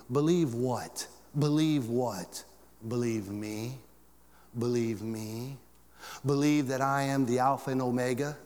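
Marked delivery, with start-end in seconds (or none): 1.4-2.4 Believe what drawn out slowly; slower repeat. Shown as a demonstration. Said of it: "repeated slower". 4.6-5.6 Believe me said slowly, rising; slower repeat. Shown as a demonstration. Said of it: "repeated slower".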